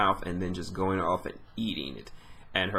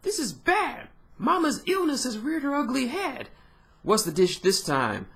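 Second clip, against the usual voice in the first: much higher, panicked minion voice; cartoon henchman pitched way up; high-pitched servant. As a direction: squeak it out like a frantic underling. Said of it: "Someone is saying".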